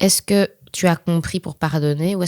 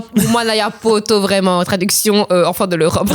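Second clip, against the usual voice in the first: excited teasing; 5 semitones higher, 6 dB louder than usual. Real, not acted. Teasing friend's teen-crisis story.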